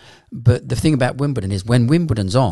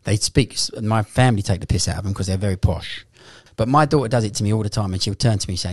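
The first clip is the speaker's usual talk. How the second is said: normal talking voice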